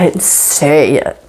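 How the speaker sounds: "say" drawn out with heavy emphasis; stress on SAY. Shown as a demonstration. Teacher explains the inflected meaning, stress on "say". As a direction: hit "say" hard, drop away on "it". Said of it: "changing my inflection".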